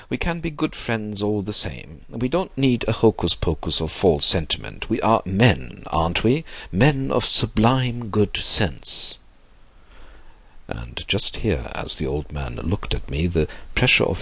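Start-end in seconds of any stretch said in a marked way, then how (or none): 0.1-9.2 put-on old gentleman, lightly raised pitch; persuasive old man. Old host proposing friendship to Max, lightly voiced, persuasive. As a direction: persuade him, slowing on the last phrase. Voices Mister Sloane in narration.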